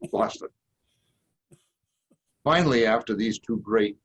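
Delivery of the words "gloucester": "Gloucester" as "GLOSS-tuh", r dropped; "Gloucester" with the Boston drop, "GLOSS-tuh"; Boston pronunciation. Shown as a demonstration. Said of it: "in the perfect Boston accent".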